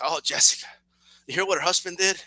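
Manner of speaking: lightly voiced grandma spilling gossip; gossiping grandmother. Grandmother talking about a cousin during the novela, lightly voiced gossip. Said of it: "my grandmother's talking about Jessica".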